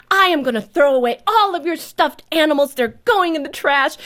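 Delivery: mother threatening her daughter's stuffed animals, loud; shouting threat. Retold or imitated. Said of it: "and I shouted".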